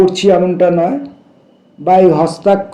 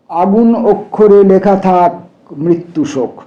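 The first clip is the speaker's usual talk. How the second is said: deliberate verse reading with long pauses; measured poem reading, repeated line held out; poetry recitation. Acted. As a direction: recite it line by line, giving each line room.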